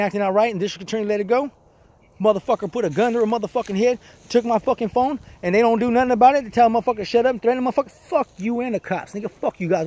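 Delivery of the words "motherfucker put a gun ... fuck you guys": higher-pitched, boiling-over anger; furious rant. Real, not acted. Ranting at Greg about the cops ignoring the assault, higher and furious. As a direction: let the fury climb as you list the wrongs.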